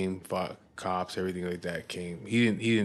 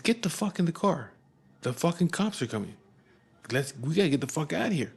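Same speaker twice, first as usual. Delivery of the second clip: high, panicked yell to get in the car; urgent yell; 8 semitones higher than usual. Retold or imitated. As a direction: shout it higher, hurrying him. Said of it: "They're like".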